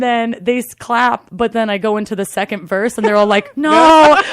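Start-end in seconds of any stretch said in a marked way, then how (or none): 3.6-4.2 loud, high wail of dismay; upset crowd. Retold or imitated. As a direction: cry out in mock horror. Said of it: "They're so upset".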